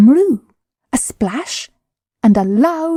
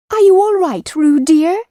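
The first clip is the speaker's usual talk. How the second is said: higher, worried mother calling; anxious Kanga; 8 semitones higher, 3 dB louder than usual. A narrator's reading. Kanga calling anxiously to Roo in the stream. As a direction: call out to her child in worry. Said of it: "called Kanga anxiously".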